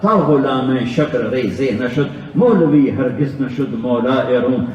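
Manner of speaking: slow, measured chant of Persian verse; poetry recitation. Acted. Preacher reciting Rumi's verse to the congregation, slow chant. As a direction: recite each line with weight.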